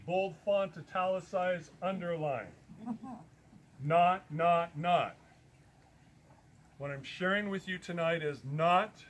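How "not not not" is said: not, not, not punched loud; stress on not. Real, not acted. Stressing to his listeners, louder. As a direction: hit every not hard. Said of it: "emphasis on the word not".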